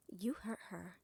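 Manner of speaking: low hissed warning, barely voiced; whispered threat. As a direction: threaten him quietly through your teeth. Threatening the envoy over the slur.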